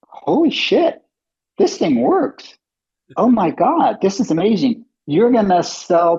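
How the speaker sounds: high, excited gushing; amazed board members. Retold or imitated. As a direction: gush like you just saw a miracle. Board members thrilled by demo.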